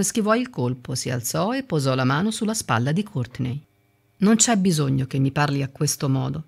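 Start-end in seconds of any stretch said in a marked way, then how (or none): 4.2-6.4 gentle. Acted. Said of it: "disse con tono gentile".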